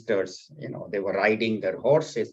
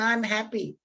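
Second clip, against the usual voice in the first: serene ascetic; 9 semitones higher than usual. Acted. Avadhut answers the king.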